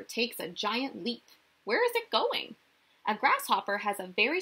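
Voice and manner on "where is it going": much higher, wide-eyed question; playful wonder. Acted. Teacher asks children where the grasshopper goes, wondering. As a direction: marvel aloud for little listeners.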